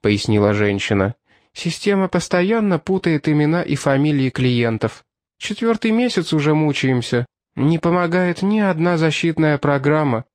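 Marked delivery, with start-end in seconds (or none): 1.5-10.3 higher weary clerk voice; a hint of a tired cashier; lightly voiced woman cashier. Cashier complains.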